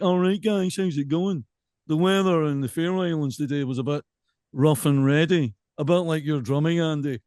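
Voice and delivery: put-on transatlantic Radio Clyde accent; Jim Kilpatrick. Chatting to listeners about weather, mock transatlantic Scottish accent. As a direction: imitate a local radio voice gone transatlantic. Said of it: "Like Jim Kilpatrick".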